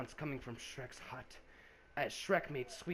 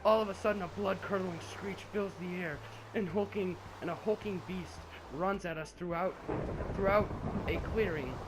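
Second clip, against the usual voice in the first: excited narration; 5 semitones higher, 4 dB louder than usual. Acted. Narrating monster attack.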